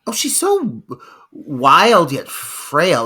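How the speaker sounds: hushed whisper, then slow; whispered awe. Real, not acted. Host marvelling at the mother, whispered then slow. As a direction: breathe it in an awed whisper.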